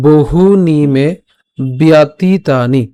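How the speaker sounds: slow syllable-by-syllable shloka recitation; line recitation demo. Shown as a demonstration. Teacher repeats the first line, slow model recitation. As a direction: hold each long vowel as you recite. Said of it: "প্রথম লাইনটা যদি আমি আরেকবার বলি".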